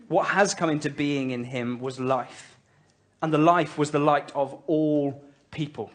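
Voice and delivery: slow, solemn Bible reading; scripture reading. Acted. Pastor reading John's prologue to the congregation, slow and solemn. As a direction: let each phrase of the Word land slowly.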